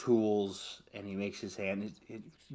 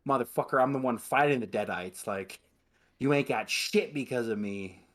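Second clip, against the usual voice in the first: tough hero comeback; 3 semitones higher, 4 dB louder than usual. Retold or imitated. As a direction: snap back like a badass hero. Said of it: "He's like".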